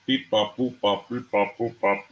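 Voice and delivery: playful mock robot beeping; robot beeps. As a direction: beep it out like a toy robot. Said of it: "hear it robot style".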